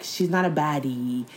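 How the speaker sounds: low, mock-dismissive remark to the buddies; imitated dismissive guy. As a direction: imitate a man playing her down, pitched low. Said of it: "you're gonna be like".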